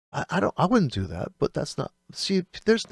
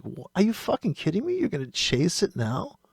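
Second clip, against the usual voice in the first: re-enacted exasperation, starting high and falling back; pissed off; 4 semitones higher than usual. Trader scolding someone chasing the market, pissed off. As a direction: protest in disbelief, high at first. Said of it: "I just get pissed off".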